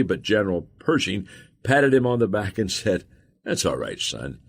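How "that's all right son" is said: reassuring. A narrator's reading. General reassures frightened private in story.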